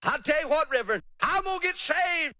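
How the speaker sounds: high, sugary put-off voice; mock polite delayer. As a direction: fob off the reverend sweetly. Delayer brushing off the preacher.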